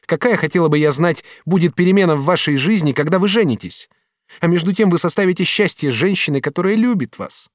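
lightly voiced young woman, reproachful; young woman's voice. Katrin reproaching the master, lightly voiced woman.

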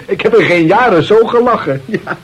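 chuckling through the words; laughing. Acted. Telling the inspector about the prank, laughing. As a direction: let the laugh spill into the line.

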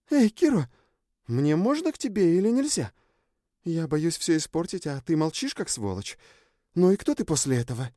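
put-on high, indignant girl's voice; indignant Sjun. A narrator's reading. Sjun complains to Kiro inside his head, indignant. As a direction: scold him for staying silent. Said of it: "Сьюн опять завозмущалась".

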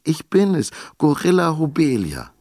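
high, loud, impatient call. A narrator's reading. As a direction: call out, fed up with waiting. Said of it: "rief Turilda Josefina ungeduldig".

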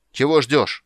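loud, high angry shout. A narrator's reading. Sorcerer shouts at motionless Geralt, loud and impatient. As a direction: yell at him to start. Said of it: "крикнул чародей".

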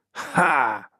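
short triumphant exclamation; exclaimed cry. A narrator's reading. Seeker sees his arrow hit, exclaiming. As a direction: let out a single "ha". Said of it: "вигукнув він".

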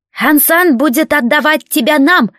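high, creaky doubtful bandit; unsure bandit thinking aloud. Acted. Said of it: "с сомнением проговорил переговорщик".

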